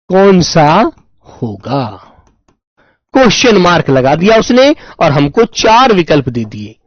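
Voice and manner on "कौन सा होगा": slower, softer repeat. Shown as a demonstration.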